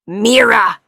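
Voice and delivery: loud scream of a name; terrified scream. A narrator's reading. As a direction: scream for her in terror. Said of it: "he screamed".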